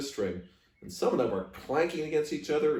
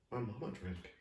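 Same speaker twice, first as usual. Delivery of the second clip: softer, hushed confession; whisper; 11 dB quieter than usual. Acted. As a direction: barely voice it, ashamed. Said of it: "I whispered".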